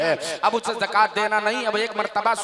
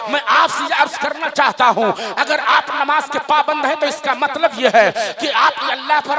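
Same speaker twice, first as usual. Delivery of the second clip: raised, insistent sermon voice; fervent preaching; 5 semitones higher, 9 dB louder than usual. Real, not acted. Preacher challenging the congregation over missed prayers, fervent preaching. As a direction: preach it with pointed urgency.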